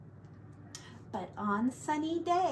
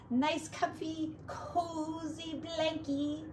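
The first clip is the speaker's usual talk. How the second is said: cooing; 5 semitones higher, 4 dB quieter, slower than usual. Acted. Cooing to baby.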